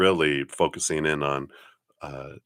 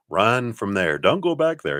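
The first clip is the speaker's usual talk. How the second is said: high, alarmed plea to flee; urgent warning; 5 semitones higher, 3 dB louder than usual. Retold or imitated. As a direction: cry out a warning to run. Spirits' imagined alarm warning.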